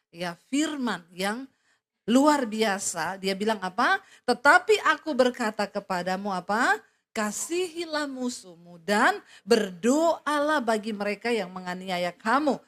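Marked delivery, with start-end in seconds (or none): 4.3-12.6 loud, slow, emphatic scripture reading; preaching at full force. Acted. Preacher proclaims Jesus' words to the congregation, loud and slow. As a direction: proclaim each phrase to the congregation.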